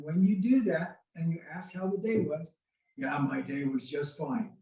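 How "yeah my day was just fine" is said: slow, deflated claim that the day was fine; unconvincing fine. Shown as a demonstration. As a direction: say fine but let it sound like it wasn't. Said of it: "in that kind of a voice".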